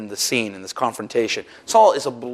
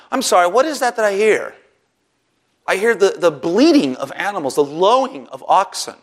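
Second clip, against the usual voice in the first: higher, mocking disbelief, prophet needling the king; sarcastic; 3 semitones higher than usual. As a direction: lay on the sarcasm like a prophet catching a liar. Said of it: "a little sarcasm and cynicism".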